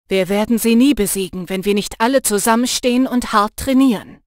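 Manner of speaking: loud, fast and urgent; rally them with force; forceful declaration. Acted. Jannis urging Lena to stand together, loud and forceful.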